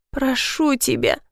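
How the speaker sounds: soft scared plea; frightened plea. A narrator's reading. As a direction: beg him slowly, scared and quiet. Begging again.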